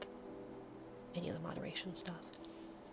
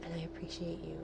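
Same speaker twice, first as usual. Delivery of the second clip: soft whispered thanks; grateful whisper; 7 dB quieter than usual. Real, not acted. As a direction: whisper it sincerely to the listener. Whispered gratitude to viewers.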